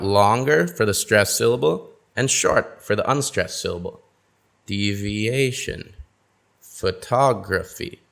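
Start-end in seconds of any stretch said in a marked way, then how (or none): 4.6-5.9 Deviation said slowly, stressed syllable stretched long; stress shown on each word. Shown as a demonstration. Teacher modelling stress for learners, slow and drawn out. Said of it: "say some of these words together". 6.6-8.0 photography slowed, with the stressed syllable held long; stress shown on each word. Shown as a demonstration. Teacher modelling stress for learners, slow and drawn out. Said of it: "say some of these words together".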